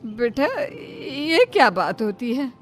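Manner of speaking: a choked, crying complaint; wounded and close to tears; tearful. Acted. Mother cries at her son for bringing home a bride.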